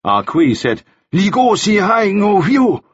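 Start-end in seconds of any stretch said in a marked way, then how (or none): 1.1-2.8 high, slow Cantonese exclamation; urgent outburst. A narrator's reading. Ah Kui speaks over the other men, urgent outburst. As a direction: burst out in protest.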